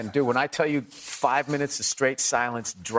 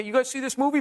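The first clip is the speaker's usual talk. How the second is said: desperate comic; 9 semitones higher, faster than usual. Retold or imitated. Mimicking a flailing comic.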